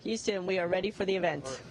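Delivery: distant space station radio; sci fi communicator. Real, not acted. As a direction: voice over a radio link. Station answers Houston over radio.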